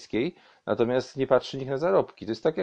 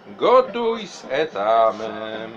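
announcer voice; 4 dB louder, much slower than usual. Acted. Slow show title.

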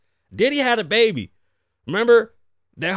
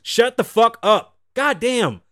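angry shout; 3 semitones higher, 4 dB louder, slower than usual. Real, not acted. Ranting at a critic.

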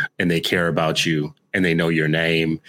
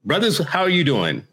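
hearty greeting; 8 semitones higher than usual. Real, not acted. Ritual greeting to the brothers.

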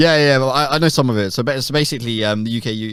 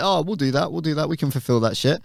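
eager volunteer; 5 semitones higher than usual. Acted. Voicing France's eager offer.

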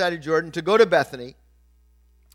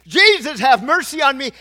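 loud, high imitated plea; raised, hammed-up cry for mercy; retold crying out at the top of his voice; 7 semitones higher, 8 dB louder than usual. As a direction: call out like a beggar desperate to be heard. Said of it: "at the top of his voice".

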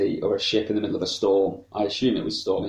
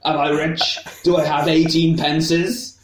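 put-on higher, slow, louder old miser voice; Scrooge voice; 7 semitones higher, 4 dB louder, slower than usual. Voicing Scrooge counting money.

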